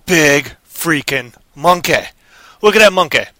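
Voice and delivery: loud, amazed gawking at a monster; scared guy spotting a giant flying monkey, loud amazed call; excited whoa. Acted. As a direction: yell it out, wide-eyed at the monkey. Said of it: "And he was like".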